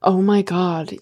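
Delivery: put-on low, softening American-accented quote; lightly acted American accent. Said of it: "you went American".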